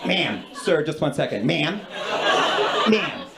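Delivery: curt, dismissive politeness, lightly imitated; a touch of condescension on ma'am; mock disdain. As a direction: imitate someone talking down to a customer. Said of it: "People say it with such disdain".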